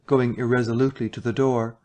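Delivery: ordinary delivery, nothing marked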